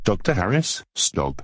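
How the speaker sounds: sing-song parroting, rising on the name; mocking copycat voice. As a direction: echo it back teasingly. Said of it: "stop copying me".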